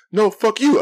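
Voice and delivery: high, loud mock comeback; retold yelling. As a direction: imitate the street yeller's retort. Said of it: "starts yelling at the other place again".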